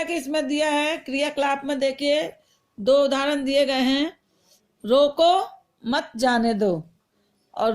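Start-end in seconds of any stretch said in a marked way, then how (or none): 4.8-6.8 slow, pause after रोको then मत जाने दो together. Shown as a demonstration. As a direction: break the phrase right after रोको. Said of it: "विराम चिन्ह अलग लग गया है".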